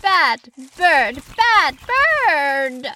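high, stern telling-off; exasperated finger-wagging scold. A narrator's reading. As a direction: scold the bird, climbing on the repeat. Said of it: "shook a finger in Fugel's direction".

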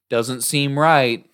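slow dreamy repeat of the words; slow echo. Retold or imitated. Imitating Ellie slowly repeating her friend. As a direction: drag it out like an echo in a trance. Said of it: "she was re-, repeating me".

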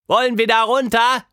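hoch und lauter, Tilda ruft; über das Rauschen hinweg fragen; gegen den Wasserfall schreien. A narrator's reading. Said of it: "schrie Tilda". (Tilda ruft laut über den Wasserfall)

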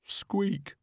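very high tiny rat squeak; sympathetic squeak. Acted. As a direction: Death of Rats squeaking kindly. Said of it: "said the Death of Rats sympathetically".

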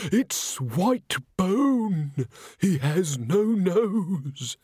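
high, extremely slow, haunted wail; dazed witness reliving the horror; horror-struck. A narrator's reading. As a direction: stretch the words out in dread. Shaken victim describes the ghost.

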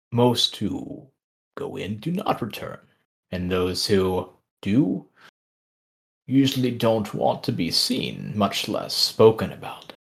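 slow, lightly voiced old tree; ancient tree voice. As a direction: drag the words out like an ancient tree.

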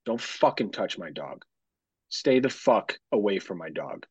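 low, slow mock threat; mock menacing warning. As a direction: growl a fake threat to throw them off. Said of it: "We go".

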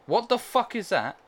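high, loud startled outburst; shocked. Real, not acted. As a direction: blurt it out in disbelief. Sees strange crafted block.

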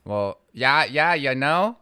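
folksy Minnesota agreement; Minnesota accent. Shown as a demonstration. Co-host trying out a Minnesota accent. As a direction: lilt it like a Minnesotan.

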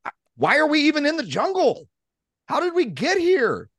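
fast, high, rattled self-talk; panicked inner voice. Retold or imitated. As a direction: spiral into panic out loud. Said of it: "internal dialogue that says".

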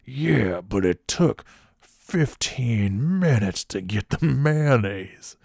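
very slow, drawn-out mock outrage; imitating a pissed-off customer. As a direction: drag each word out with put-on indignation. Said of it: "he's really pissed about this mayonnaise".

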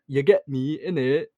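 mock English slang, Sheffield style; Sheffield accent. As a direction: imitate a Sheffield local's accent. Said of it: "Apparently there they actually talk like".

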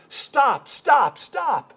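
high panicked shout of stop; retold scream. Passenger yelling at the reckless alien driver, high panicked shout. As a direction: yell it like a terrified passenger. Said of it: "and she screams".

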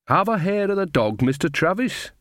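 high-pitched, coaxing Nanny; Nanny's voice. Acted. Nanny plying the coachman with drink, high and coaxing.

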